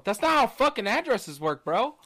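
hammed-up scolding of a clueless caller; mock exasperated scold. Retelling scolding the caller about his address, mock loud.

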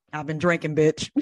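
laughing through the line; laughing movie quote. Retold or imitated. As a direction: quote it while cracking up. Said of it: "my favorite part of that movie".

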